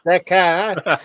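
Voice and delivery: Carolina said with the consonants swallowed; drawn out vowels. Shown as a demonstration. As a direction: stretch the vowels in Carolina, drop the R and L. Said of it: "You've gotta say Carolina without any consonants".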